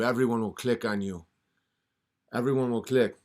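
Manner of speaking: a hint of a scheming devil; devil tempting. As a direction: coax him like a smooth devil. Devil makes deal.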